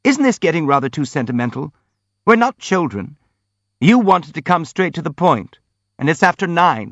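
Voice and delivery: squeaky. A narrator's reading. Hippolyte wants the prince to get to the point, squeaky. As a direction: squeak impatiently to hurry things along. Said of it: "squeaked Hippolyte".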